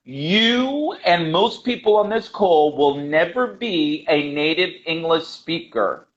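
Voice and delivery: deliberate, drawn-out restatement; slow, emphatic. Real, not acted. Teacher repeating the point so learners absorb it, slow and emphatic. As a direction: let it sink in, slowly.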